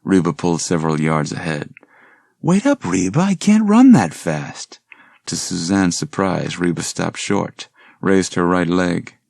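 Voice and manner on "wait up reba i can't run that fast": calling out breathless. Acted. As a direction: call after her, winded and pleading. Suzanne falling behind.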